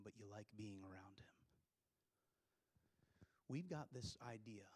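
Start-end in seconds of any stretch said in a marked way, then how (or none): 0.0-1.3 softer whispered aside to the room. Real, not acted. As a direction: drop to a whisper. Intimate point about God.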